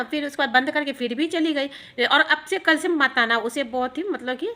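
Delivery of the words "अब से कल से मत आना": put-on slow, louder, stern old woman; stern warning. Old woman telling the sadhu not to come, slow and stern. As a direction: draw each word out as a firm final warning.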